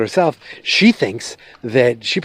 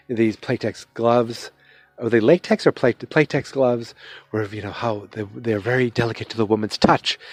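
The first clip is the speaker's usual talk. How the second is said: soft and intimate; 3 dB quieter than usual. Retold or imitated. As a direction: purr it gently like a seductive ad. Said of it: "very soft and intimate-like".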